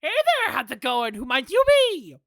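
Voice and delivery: new character voice. Acted. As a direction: try out a voice for the newcomer. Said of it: "what voice do we give you".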